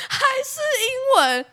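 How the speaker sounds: high, whiny exasperated cry. Real, not acted. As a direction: wail in disbelief. Frustrated outburst. (崩溃地高声说)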